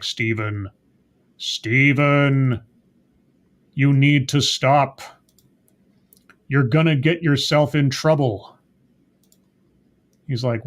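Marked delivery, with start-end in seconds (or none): 0.0-8.5 Khonshu. Retold or imitated. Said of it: "Khonshu shows up again. He's like".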